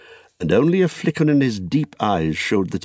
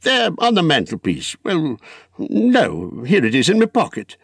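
Bilbo voice; 8 semitones higher than usual. A narrator's reading.

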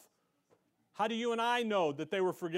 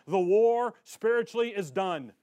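preaching shout; 8 dB louder than usual. Real, not acted. Preaching crescendo on Calvary's victory.

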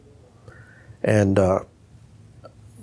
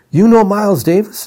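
excited question; 9 semitones higher, 5 dB louder than usual. Retold or imitated. Excited store workers.

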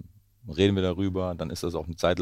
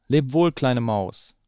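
higher, louder and slow fox voice; fox farewell; 7 semitones higher, 7 dB louder, much slower than usual. Acted. Fox fleeing to its den, slow higher farewell. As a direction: let the fleeing fox say goodbye. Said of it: "rief er".

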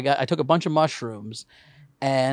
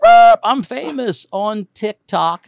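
slow, louder dog bark into a boast; 4 semitones higher, 7 dB louder, much slower than usual. Retold or imitated. Comic half-barks a boast as the impatient dog. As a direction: bark the words like a proud dog. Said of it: "that eight-minute bark".

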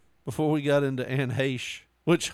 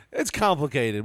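slightly raised, emphatic delivery; mock explanation; 3 dB louder than usual. Podcaster mocking the toxicology report's wording, pointed and slightly raised.

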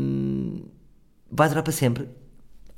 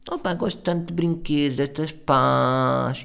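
cutesy woman; 2 semitones higher, slower than usual. Retold or imitated. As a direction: coo like a grown woman playing child. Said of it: "childish woman imitated again". (voz aguda e infantil, a gozar)

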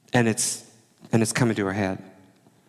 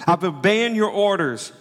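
sulky tantrum; 4 semitones higher, slower than usual. Acted. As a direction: drag out "never" like a wronged son. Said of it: "He's throwing a tantrum".

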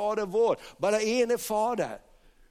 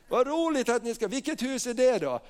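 high, eager interest; cheery banker; 4 semitones higher than usual. Retold or imitated. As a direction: ask with delighted curiosity. Bank director asks about house. (glatt, nyfiket tonfall)

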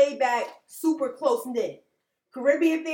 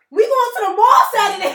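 higher, louder breezy mom voice; imitating mom; 7 semitones higher, 9 dB louder than usual. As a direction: toss it off like a carefree mom. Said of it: "My mother, for instance, an African American woman".

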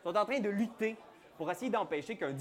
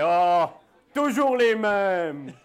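dock worker voice; 6 dB louder, much slower than usual. Acted. GM voices Théodred.

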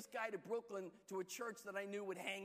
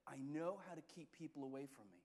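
laughing inner thought; 7 semitones lower, 4 dB quieter than usual. Retold or imitated. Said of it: "and I was like".

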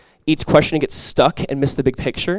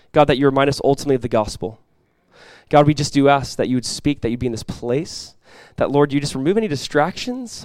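spoken prayer. Real, not acted. Pastor asking God for healing in the church, earnest prayer. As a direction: lead the congregation gently in prayer.

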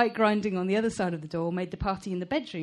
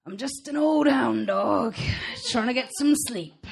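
innocent denial; 4 semitones higher, 4 dB louder than usual. A narrator's reading. Black Pat to Esther outside her door, innocent denial. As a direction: plead firm innocence as an old hound. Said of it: "had the tone of innocent denial".

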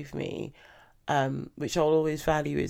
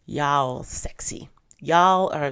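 a clumsy, slowed-down stab at an American Southern drawl; horrible American accent; slower than usual. Pretend. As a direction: try the American y'all and botch it. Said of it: "that's a horrible accent".

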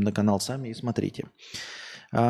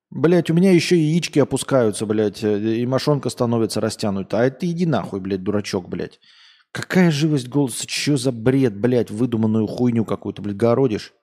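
angry rant; 3 dB louder than usual. Real, not acted. Продолжает злой разнос.

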